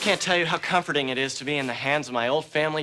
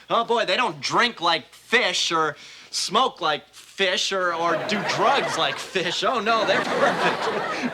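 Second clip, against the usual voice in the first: sarcastic; slower than usual. Acted. Sarcastic about perfect doctors.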